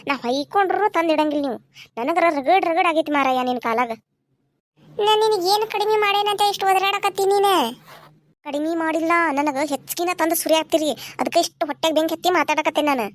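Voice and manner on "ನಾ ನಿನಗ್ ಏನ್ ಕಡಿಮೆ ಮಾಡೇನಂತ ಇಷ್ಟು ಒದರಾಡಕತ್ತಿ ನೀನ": husband voice. Acted. Husband argues back.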